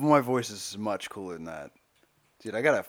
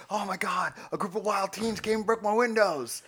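high, mock-frantic complaint; mock outrage at the vandals, pitched up; Eric Andre's mock panic; 8 semitones higher than usual. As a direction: play the fake victim, overacting the alarm. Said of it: "And he's like".

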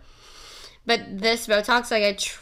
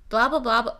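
tripping over the tongue in quick blahs; garbled, jumbled blah-blah noise; tongue-tied babble; faster than usual. Real, not acted. Host fumbling a chat with listeners, tongue-tied babble. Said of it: "I literally can't speak".

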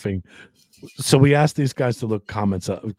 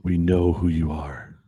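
creepy low voice; 3 semitones lower, much slower than usual. Acted. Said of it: "I sound a bit creepy".

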